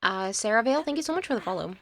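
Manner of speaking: talking while chewing; words round a mouthful of crackers; mouth full. Real, not acted. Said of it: "Sorry, I'm eating Cheez-Its".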